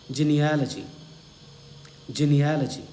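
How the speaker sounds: teacher's careful model of "genealogy", stress on AL; model pronunciation. Shown as a demonstration. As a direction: say "genealogy" as jee-nee-AL-uh-jee. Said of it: "ये style होगी पढ़ने की".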